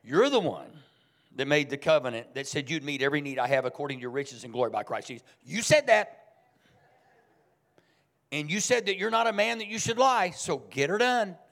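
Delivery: preacher growing firm and loud, holding God to His word. Retold or imitated. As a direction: stand your ground and press God on His promise. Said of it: "I get really firm with God".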